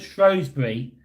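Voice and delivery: Shrewsbury said as "SHROHZ-bree"; Shrewsbury with a long "oh" after shr; alternative pronunciation. Shown as a demonstration. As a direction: say Shrewsbury with "shrows", rhyming with rose. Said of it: "I know it's Shrewsbury".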